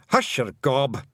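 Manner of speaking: loud high Scots snap; shout. Acted. The chief shouting down a Feegle. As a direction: shut them up. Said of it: "shouted the helmet twiddler".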